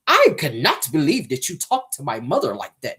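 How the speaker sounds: lightly voiced well-spoken, careful diction; a hint of the overly proper son; proper-talking teen son. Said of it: "That's how he was talking".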